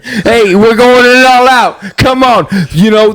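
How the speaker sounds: high, pushy New York trainer; New York coach yelling. Pretend. Friend imitates New York gym coach, yelling. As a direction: shout at the runners like a Jersey coach. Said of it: "New York accent".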